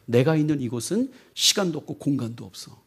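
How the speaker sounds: soft, hushed tender explanation; a lightly voiced loving AI letting him down; gentle farewell. Samantha gently explains to Tim why she leaves. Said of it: "사만다가 뭐라 하냐면".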